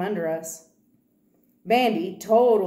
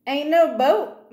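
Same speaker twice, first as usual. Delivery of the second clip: slow, higher, louder correction; insisting; 7 semitones higher, 6 dB louder, slower than usual. Acted. Girl corrects the man about the canoe, slow and insistent. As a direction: lean on every word to set him straight. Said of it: "Malvina insists".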